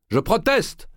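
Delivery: cri de protestation très haut et fort; voix puissante. A narrator's reading. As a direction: lancer la protestation du haut des marches. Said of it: "cette voix était si puissante". (le grand maître proteste devant le tribunal, voix puissante)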